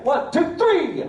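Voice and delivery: rising count into a yell; counting up to a scream. Pretend. Showman counting down to the scare. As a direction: build the count up to a shout. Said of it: "give me your best horror movie scream".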